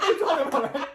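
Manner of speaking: high, laughing disbelief; amused disbelief. Retold or imitated. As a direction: laugh through the question. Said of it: "I'm like".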